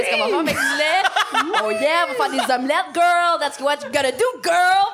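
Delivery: lightly voiced Bronx hype girl. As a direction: pump yourself up like a Bronx girl. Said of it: "quelqu'un du Bronx".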